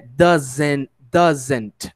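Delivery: "Doesn't" with a clear "zen" second syllable; pronunciation demo. Shown as a demonstration. Teacher shows how S-E-N sounds in "Doesn't", carefully pronounced. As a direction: say "Doesn't" as two distinct syllables, like "DUZ-ent". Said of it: "como se a gente estivesse pronunciando S E".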